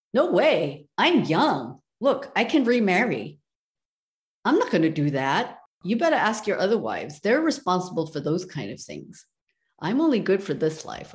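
put-on a spoiled young wife waving him away; dismissive refusal. Young wife refuses dying husband.

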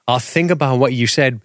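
mock-condescending brush-off. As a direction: lightly imitate a patronizing let-down. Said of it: "she condescendingly pats his".

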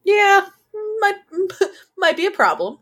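high laughing squeal, breaking up. Real, not acted. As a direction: laugh through the words. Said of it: "going down the wrong road".

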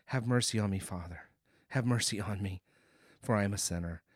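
low, subdued plea for mercy; humble confession. Retold or imitated. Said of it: "he humbly admits that".

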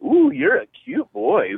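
high, drawn-out cooing imitation; imitating flirty churchgoer.

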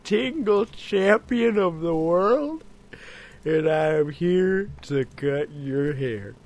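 slow, drawn-out mock ASMR barber voice; ASMR roleplay barber. Host playing barber to his co-host, mock ASMR. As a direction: play a hammy tingle champion with whispered snips.

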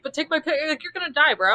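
motorcycle guy. Retold or imitated. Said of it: "the motorcycle guy".

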